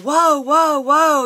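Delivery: high, loud string of whoas; loud retold plea to stop; alarmed calming-down. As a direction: imitate someone urgently halting a blow-up. Retold bystander trying to calm her.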